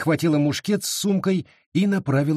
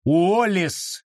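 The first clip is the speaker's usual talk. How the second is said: sharp, higher bark of the name; preacher calls Wallace to order; 5 semitones higher than usual. A narrator's reading. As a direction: bark his name to stop him. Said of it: "рявкнул его преподобие".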